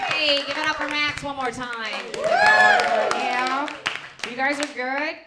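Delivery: high, loud hype yell; rally the audience, loud and high; crowd hype shout. Real, not acted. Host asks the crowd to cheer again, loud and high.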